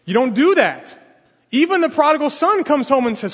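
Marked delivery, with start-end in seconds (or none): 0.0-0.9 shocked objection. Retold or imitated. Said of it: "that guy sitting over there went".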